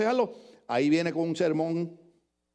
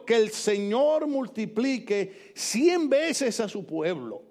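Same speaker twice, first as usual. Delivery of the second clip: slow, savoring each word; elegant reading; much slower than usual. Shown as a demonstration. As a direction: relish the phrase slowly. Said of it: "Mire qué elegancia". (lectura elegante y pausada)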